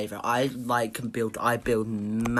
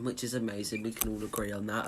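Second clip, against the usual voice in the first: sarcastic; 6 dB quieter, faster than usual. Acted. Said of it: "I'm being sarcastic".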